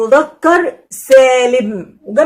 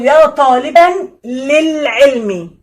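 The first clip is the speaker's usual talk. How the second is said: slow careful recitation; much slower than usual. Shown as a demonstration. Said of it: "اقول".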